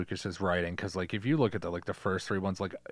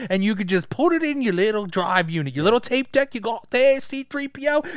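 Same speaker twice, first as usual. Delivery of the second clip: high, loud put-on robot voice; hammed-up droid trash talk; foul-mouthed robot; 13 semitones higher, 8 dB louder than usual. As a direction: rant crudely as a cocky little droid. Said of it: "like, a foul mouth kinda robot".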